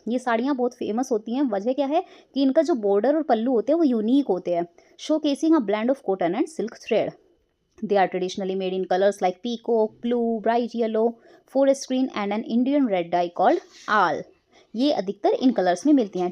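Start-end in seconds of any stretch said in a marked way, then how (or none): 5.0-14.2 slow, careful textbook reading; teacher narrating an English passage, slow and clear; reading a passage aloud. Acted. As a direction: read it out slowly for the class.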